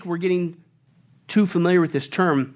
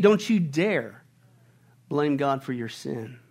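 stern warning; 4 semitones lower, slower than usual. Real, not acted.

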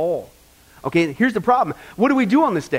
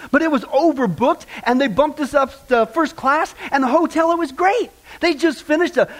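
higher-pitched, glowing trip report; gushing traveler; 4 semitones higher than usual. Acted. Woman boasting to her hairdresser about the trip, gushing. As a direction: rave about it, voice lifted.

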